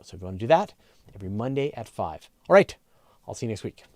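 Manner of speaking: upbeat sign-off announcer voice; outro read. Acted. Host signing off to viewers until next week, lively outro read. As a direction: wrap up the show warmly for the audience. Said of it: "And I'll do the outro".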